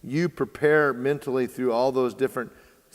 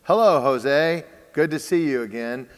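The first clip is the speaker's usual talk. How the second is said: confident welcoming greeting; 5 dB louder than usual. Acted. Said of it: "he would go".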